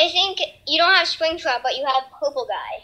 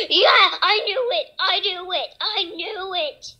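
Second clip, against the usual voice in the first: scared horror game streamer; 4 semitones higher, slower than usual. Real, not acted. Springtrap appears.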